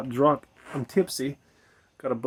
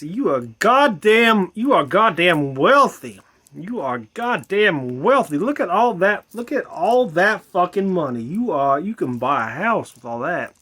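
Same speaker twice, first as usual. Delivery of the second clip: loud, slow, amazed ancient man; 4 semitones higher, 7 dB louder, slower than usual. Retold or imitated. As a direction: gape at the coins like a man from three thousand years ago. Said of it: "if I said".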